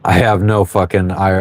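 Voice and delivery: usual speaking voice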